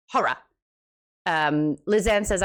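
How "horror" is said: a short HORROR, both syllables kept, "HAW-ruh"; horror in two syllables. Shown as a demonstration. Proving there's no mistaking it, horror in two syllables. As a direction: keep the "-ruh" on the end of HORROR. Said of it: "There's no mistaking that".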